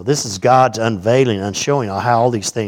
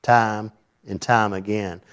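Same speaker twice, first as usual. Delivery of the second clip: slow, dragging time and time again, each time drawn out; boringly; 4 dB quieter, slower than usual. Shown as a demonstration. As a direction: drag out "time and time again" as if bored to tears.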